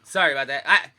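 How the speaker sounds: hoarse just-woke-up voice; rough morning voice after a cough. Real, not acted. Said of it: "I still have my morning voice".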